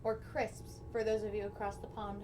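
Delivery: talking while munching chips; crunching chips. Real, not acted. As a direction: chips crunching between words. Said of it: "I apologize for the crunching noises because I grabbed chips to eat".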